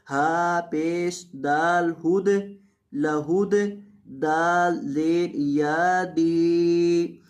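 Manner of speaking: slow letter-by-letter buildup of मुखलिसीन; spelling out slowly. Shown as a demonstration. Teacher builds the word for students, slow syllable drill. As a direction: spell it out syllable by syllable, then join. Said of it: "letter-by-letter spelling".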